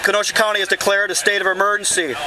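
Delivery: loudspeaker announcement; blasting sound cannon. Real, not acted. Loudspeaker order to the crowd.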